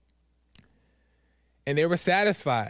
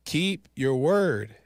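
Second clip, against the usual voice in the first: slow firm God voice; much slower than usual. Retold or imitated. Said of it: "I felt him tell me".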